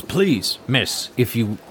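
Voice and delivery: polite, mildly anxious guard; lightly voiced earnest guard; pleading guard. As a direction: gently urge her to turn back. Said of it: "the guard, he goes".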